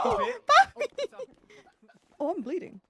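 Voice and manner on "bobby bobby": loud call across the room. Real, not acted. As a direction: shout his name to get attention. Calling out to teammate.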